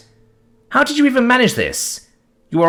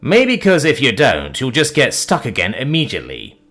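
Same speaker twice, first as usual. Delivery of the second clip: exasperated; 4 semitones higher than usual. Acted. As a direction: explain it like you've lost patience. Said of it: "exasperated at this point".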